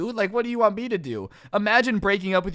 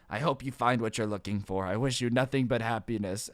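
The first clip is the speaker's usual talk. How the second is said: put-on low solemn old man; 9 semitones lower, 6 dB quieter than usual. Old man's strange farewell.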